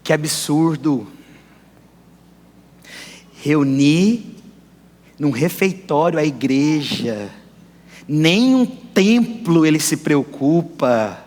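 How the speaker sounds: slow, scandalised online critic, lightly voiced; mock indignant critic. Pastor mimics an internet critic scolding him, slow mock indignation. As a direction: drag it out like a prim complainer. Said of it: "escreveram pra mim na internet".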